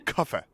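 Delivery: "coffee" said the fake British way, /kʰʌfə/; imitating how the video woman says "coffee"; mock British coffee. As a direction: clip "coffee" to a mocking British "kuh-fuh". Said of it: "like that".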